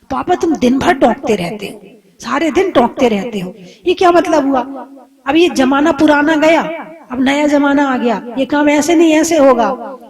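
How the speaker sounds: put-on a young man fed up with his father's advice; annoyed son. Son angrily arguing with his nagging father. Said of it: "बेटे को बड़ा गुस्सा आता".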